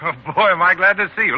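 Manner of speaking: glad laugh. Acted. Overjoyed to see his friend.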